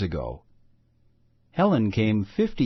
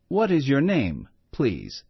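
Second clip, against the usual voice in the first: put-on a touch higher, lightly accented friendly mother; mild accent, smiling introductions; friendly best English; 3 semitones higher than usual. Mother introduces herself and her daughter with a smiling, light accent. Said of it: "still smiling".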